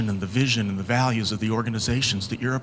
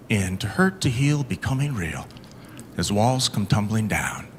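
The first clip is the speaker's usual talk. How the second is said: poem recital. Acted. Reciting his own poem to the audience, rising then falling to a whisper. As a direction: recite it like a confession, building then fading.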